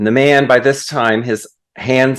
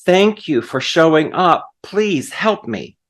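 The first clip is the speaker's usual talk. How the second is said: raised-pitch plea, easing off in volume; mild mock yell; 4 semitones higher than usual. Man on a branch to the voice, mildly mock-yelled plea. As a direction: act out a grateful call for help. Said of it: "And he yelled and yelled".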